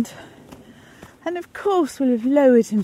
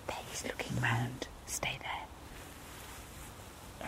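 barely audible whisper; 9 semitones lower, 19 dB quieter, much slower than usual. Real, not acted. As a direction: whisper so he won't hear. Hiding, dog approaching.

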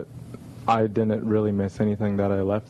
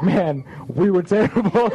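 higher, louder, slow and glum; mock dejected groan; 9 semitones higher, 5 dB louder than usual. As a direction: moan it like a sore loser. Retelling teammates after a loss.

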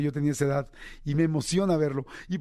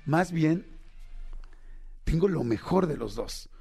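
reflective; slower than usual. Retold or imitated. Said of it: "pensé y dije".

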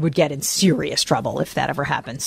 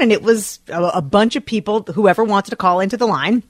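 ordinary talk, nothing marked

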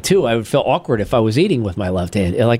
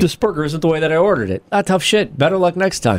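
unbothered foreign server; 4 semitones higher than usual. Retold or imitated. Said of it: "they're like".

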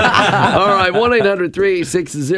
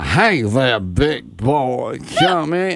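put-on low, breathy seductress; mock sultry deep voice; Jessica Rabbit; 7 semitones lower, much slower than usual. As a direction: drop low for a hammed-up come-on. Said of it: "deep breathy".

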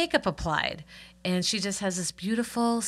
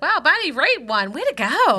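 mild cheer; 8 semitones higher, 6 dB louder than usual. Retold or imitated. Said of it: "except like".

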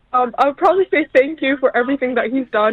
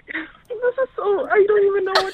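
overwhelmed; 5 semitones higher than usual. Real, not acted. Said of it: "She's freaking out".

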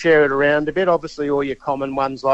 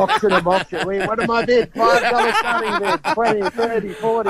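auctioneer; 8 semitones higher than usual. Pretend. Mock auctioneer calling bids.

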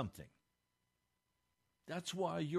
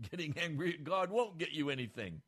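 forceful preaching; 4 semitones higher, 7 dB louder than usual. Acted. Preacher raises voice on point.

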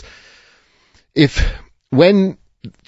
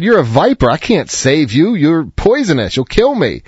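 wary man; 5 semitones higher than usual. Acted. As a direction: push the snake away, a bit alarmed. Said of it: "He said".

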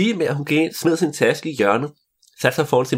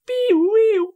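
imitated siren.

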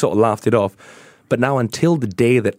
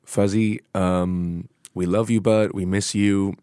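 tender farewell; 5 dB quieter than usual. Real, not acted. Farewell to late friend.

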